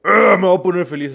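high, loud mock forced happiness; forced cheer. Mocking his own forced attempt to be happy. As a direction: fake it till you make it, squeaky.

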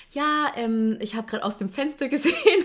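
a hint of nosy old lady, breaking into a laugh; lightly voiced old granny. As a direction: gently imitate a confused village granny. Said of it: "so eine alte Omi".

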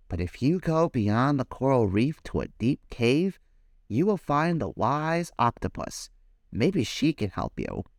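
lightly voiced starfish. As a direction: answer gently. Starfish gives directions.

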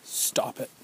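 breathy whisper; whispered plea. Retold or imitated. Survivor urging the co-op to stop, whispered. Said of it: "I'm saying".

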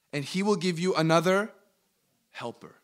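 deliberate reading with a pause before the last word; slow reading. Shown as a demonstration. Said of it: "read it really slow".

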